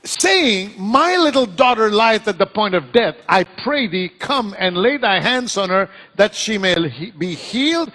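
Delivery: high opening word, then measured Bible reading; dramatic scripture reading. Acted. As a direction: read scripture out, building with pauses at the close. Reads scripture aloud to congregation.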